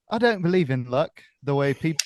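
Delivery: half-hearted British accent, abandoned midway; attempted British accent. Shown as a demonstration. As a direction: try going British, not quite managing it. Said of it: "I tried to go British".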